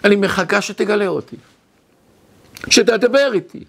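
mild acted cry to be found; soul crying out. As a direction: imitate a soul calling out, with pauses between phrases. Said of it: "צועקת".

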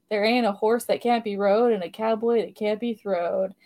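cheesy fake Southern accent, lightly done; a hint of a hammy Southern accent. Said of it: "this really cheesy fake Southern accent".

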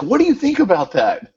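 light Welsh lilt, asking; Welsh accent. Retold or imitated. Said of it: "this is with his, his Welsh accent".

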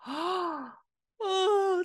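high, loud retold oh of relief; overcome oh. Coach says put it into your business, overcome oh. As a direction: let the oh break out, overwhelmed. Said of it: "started crying".

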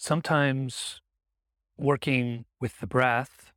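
unhurried meditation guidance with long pauses; guided meditation. Acted. Teacher guiding listeners to notice the breath, guided meditation. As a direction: gently lead the listener's attention, leaving space between phrases.

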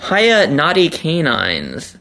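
slow, bright letter-reading voice. Shown as a demonstration. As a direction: read out the greeting playfully. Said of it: "Candrel writes".

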